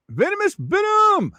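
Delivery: high, excited call of a chat name. Real, not acted. Streamer hails viewer Venom, high excited call.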